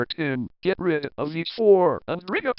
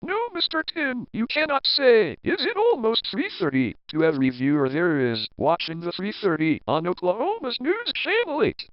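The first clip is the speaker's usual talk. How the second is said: scolding; 5 semitones higher than usual. Acted. Scolding Tim's on-air question.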